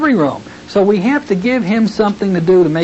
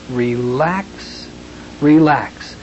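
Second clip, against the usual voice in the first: gentle relax; 3 semitones lower, much slower than usual. Shown as a demonstration. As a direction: soothe them down with each word. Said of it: "gently say the words".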